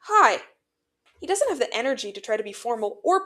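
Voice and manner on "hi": high, nervous burst; uneasy hello, pitched up; wavering greeting. A narrator's reading. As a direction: greet too loudly, rattled. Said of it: "he greets, voice wavering".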